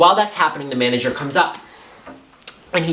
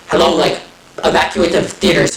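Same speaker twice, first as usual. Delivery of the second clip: louder, crackly radio announcement; mock walkie-talkie call; 5 semitones higher, 5 dB louder than usual. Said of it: "the manager goes on the walkie-talkie".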